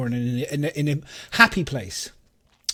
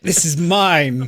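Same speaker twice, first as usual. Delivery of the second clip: laughing possessive claim; 5 dB louder, much slower than usual. Retold or imitated. Mock tourist claiming sun lounger.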